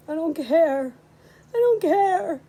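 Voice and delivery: rising, tearful cry of protest. Acted. Grieving boy to his father, crying out. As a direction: break into tears on the second one. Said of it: "He was crying now".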